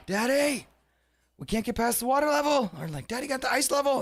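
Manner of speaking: put-on high small child calling daddy; kid's voice. Dad imitating his young kids calling for help, high child voice. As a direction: pitch up into a little kid asking for help. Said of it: "every now and then I'd hear".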